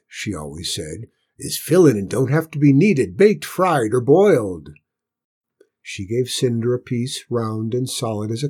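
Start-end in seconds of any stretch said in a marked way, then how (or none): 1.4-4.7 rustic cook ranting; loud, rough cook grumbling; rough country cook. Acted.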